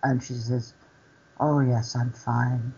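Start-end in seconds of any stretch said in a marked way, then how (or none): 1.4-2.7 softly voiced mock brave face; imitated near tears. Storyteller voices the tearful cleaner denying it, near tears. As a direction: say it small and soft, as if close to crying. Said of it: "looked like she was going to cry".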